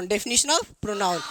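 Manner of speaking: very slow, word by word; slow dictation. Shown as a demonstration. Teacher dictating the heading to pupils, very slowly. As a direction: spell it out for pupils writing. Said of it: "repeated for dictation".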